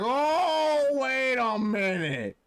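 high, loud squeaky creature voice, then slowing; high pretend Pokemon realizing something. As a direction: squeal the surprise like a cartoon critter. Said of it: "He's like".

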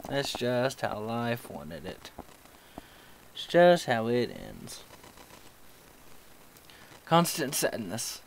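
slow, mopey mock sadness; mock emo gloom. Player mocks his own death, slow emo gloom. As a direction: play a brooding emo kid, hammed-up. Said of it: "I sound like an emo kid".

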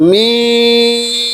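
মিম hummed long and level; drawn-out letter name. Shown as a demonstration. Teacher showing students the lip letters, long held tone. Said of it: "খেয়াল করেন".

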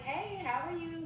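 high, slow, overly sweet hello; sweet greeting. Retold or imitated. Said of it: "I'm like".

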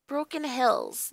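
slow hushed whisper. Acted. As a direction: breathe it, remembering slowly. Recalling a half-remembered phrase.

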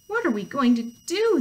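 loud, high storybook wail; acted panic; panicked cry. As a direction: cry out as a group of alarmed animals. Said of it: "they cried".

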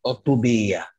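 "O to bear" modelled as oh-too-BEE-a; corrected pronunciation. Shown as a demonstration. Author corrects interviewer's "O to bear", model pronunciation. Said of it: "¿Lo he dicho bien?".

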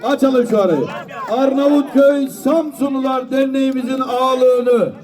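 slow, drawn-out closing call; auctioneer. Acted. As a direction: announce the sale like an auctioneer.

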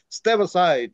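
imitating son telling dad to step aside; impatient kid. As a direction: push the parent out of the way. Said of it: "Like, uh".

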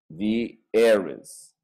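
"The heiress" slow, thee and eres with no h; silent h heiress. Shown as a demonstration. Teacher spells out the sound for the class, slowly. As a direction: stretch "The heiress" out, beginning on the vowel. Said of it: "La palabra se dice heiress".

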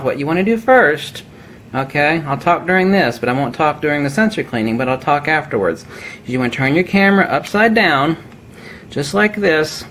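words pushed out the side of the mouth; talking out of mouth corner. Real, not acted. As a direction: talk from the corner of your mouth while busy. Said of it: "I'm gonna start talking out of the corner of my mouth".

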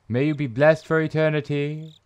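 solemn, level intoning; held, chant-like delivery; epitaph reading. Acted. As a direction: intone it evenly, like a blessing. Reads epitaph, first take.

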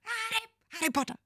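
high, soft dramatic name call; quoting a Harry Potter trailer line. Retold or imitated. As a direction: play it like the trailer. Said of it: "Harry Potter trailers where he goes".

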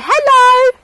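put-on high, slow, loud baby-talk prompt; sing-song demo for a toddler. Shown as a demonstration. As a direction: model the words slowly for a small child.

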